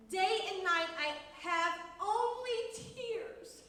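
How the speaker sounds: put-on slow, drawn-out psalm reading for children; dramatic Bible reading. Teacher reading David's words to children, slow and expressive. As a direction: read it slowly, letting each longing phrase stretch.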